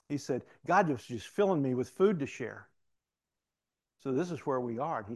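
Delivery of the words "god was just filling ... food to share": loud, eager retold testimony; animated. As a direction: imitate the inmate's joy at being used. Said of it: "he becomes so animated".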